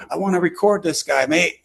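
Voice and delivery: put-on English accent. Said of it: "'cause he has that accent".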